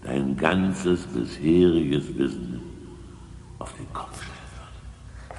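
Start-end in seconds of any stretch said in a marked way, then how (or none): 3.6-5.4 whisper. Acted. Secret revealed, whispering.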